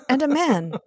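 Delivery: put-on playful British accent, dry and amused; British Giles impression. Podcaster voicing Giles for a co-host, in a British accent. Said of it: "I love these impressions".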